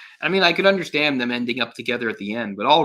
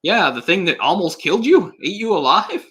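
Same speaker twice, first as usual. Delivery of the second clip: sarcastic mock wonder; 8 semitones higher, 7 dB louder than usual. Reviewer mocks Fievel's delight, much higher and sarcastic. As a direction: gush over the cats with heavy sarcasm. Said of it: "And so he's like".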